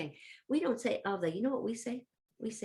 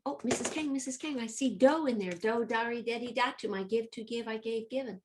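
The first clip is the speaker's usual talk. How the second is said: lightly voiced excited student, higher pitched; eager pupils; 3 semitones higher than usual. Teacher voices pupils calling out to Missus Kang, eagerly. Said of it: "I can hear you saying".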